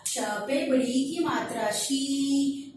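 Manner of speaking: शी held long with a drawn-out ee; correct long vowel. Shown as a demonstration. Teacher shows learners the right reading, शी drawn out long. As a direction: stretch the final vowel of शी. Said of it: "इस श को तो ठीक पढ़ा".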